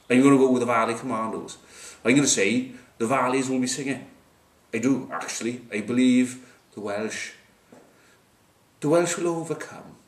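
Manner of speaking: uncertain put-on Welsh-ish accent; muddled accent. Pundit backing the Welsh, muddled mock accent. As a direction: slip into a vague, playful regional accent. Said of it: "I don't know what the accent is".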